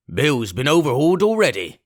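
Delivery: pirate voice. Acted. Searcher tells Pugh the body is empty, rough. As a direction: report it gruffly. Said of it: "said he".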